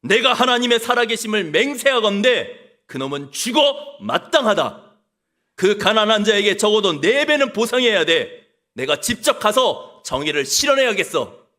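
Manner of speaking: a king leaping up in outrage; angry outcry. Retold or imitated. King hears the story and cries out in anger. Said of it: "벌떡 일어나 소리를 칩니다".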